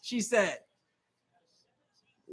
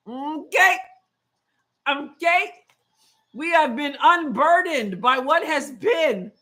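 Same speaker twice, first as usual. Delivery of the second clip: slow, mock-solemn slogan through a laugh; Kamala impression; slower than usual. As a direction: deliver the famous line slowly, grinning. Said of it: "I'm doing my Kamala impression".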